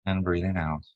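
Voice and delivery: calm, even meditation guide with long pauses; unhurried lead through breath and body, leaving space between phrases; guided meditation. Acted. Guiding a group to relax as light flows down, guided meditation.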